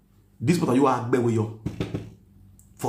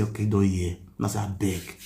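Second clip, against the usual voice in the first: low, gentle begging; soothing the angry mother on the phone; pleading softly; 4 semitones lower than usual. Retold or imitated. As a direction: coax her like a peacemaker. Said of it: "I call the pet her".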